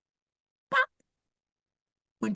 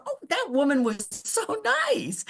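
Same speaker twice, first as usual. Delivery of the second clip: laughing relief; 6 semitones higher, slower than usual. Retold or imitated. Characters relieved, retold.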